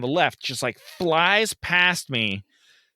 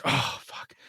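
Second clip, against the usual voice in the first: dismayed; 7 dB quieter than usual. Retold or imitated. Girl starts bawling.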